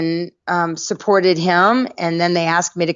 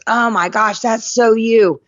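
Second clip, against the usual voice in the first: mock-excited gush, higher and drawn out at the end; excited boyfriend; 5 semitones higher, slower than usual. Boyfriend spotting a book for his girlfriend, mock excited. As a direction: imitate a boyfriend's eager discovery.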